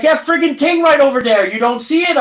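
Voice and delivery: high-pitched Mainer voice pointing something out; a Maine local insisting you see it; Maine accent impression. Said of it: "He's like".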